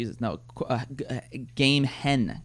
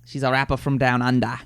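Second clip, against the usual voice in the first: mock Aussie accent, dropped r endings; lightly faked Australian twang; 2 semitones lower than usual. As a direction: say it like a pretend Aussie. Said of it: "working on my Australian accent".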